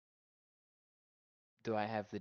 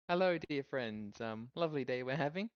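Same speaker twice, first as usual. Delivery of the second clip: dopey cartoon bellow. Repeats greeting to the gnolls.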